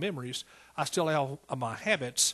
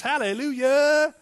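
drawn-out hallelujah, much higher and louder; ringing preacher's hallelujah; exultant hallelujah shout; 9 semitones higher, 9 dB louder, slower than usual. Acted. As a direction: cry it out in praise, slowly. Preacher voicing believer's triumph.

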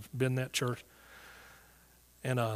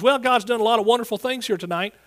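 high, loud platform announcement; retold preacher's proclamation; imitated lady minister; 8 semitones higher, 6 dB louder than usual. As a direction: address the whole congregation, pitched up and projected. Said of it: "this lady that was ministering".

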